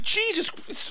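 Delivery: high-pitched mock alarm; retold dismay. Diner caught and scratched by his pursuers, high mock alarm.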